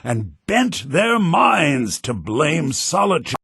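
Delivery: slow, measured bardic recital; deliberate verse reading; poem recitation. Acted. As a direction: declaim it like a court poem.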